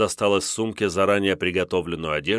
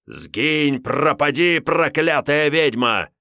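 louder, otherworldly damning; angry curse; 7 semitones higher, 4 dB louder, slower than usual. Acted. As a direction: curse the witch away. Crusaders curse the witch.

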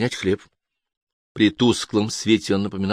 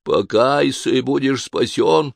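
talking tree; 4 semitones higher, slower than usual. Acted. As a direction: creak it out like a tree in the wind. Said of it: "тихим потусторонним голосом проскрипел, точно дерево на ветру".

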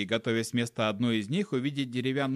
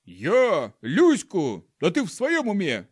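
indignant monkey male, much louder and higher; shouted back; 5 semitones higher, 6 dB louder than usual. Acted. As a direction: bellow your defence. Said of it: "крикнул в ответ волосатый самец".

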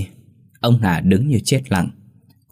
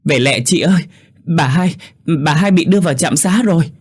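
put-on high, urgent boyish yell; acted shout; 9 semitones higher, 4 dB louder than usual. A narrator's reading. Neighbour boy telling Út her mother is at the clinic, shouting. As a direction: cry out the bad news in alarm. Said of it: "Tèo hét lên".

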